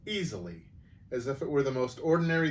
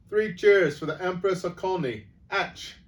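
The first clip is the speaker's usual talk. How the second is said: loud, high-pitched jeering cheer; mock cheer; 7 semitones higher, 6 dB louder than usual. Crowd making fun of the witch, loud mock cheer. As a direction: lead three cheers in mockery. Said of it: "the cheers died away into roars of laughter".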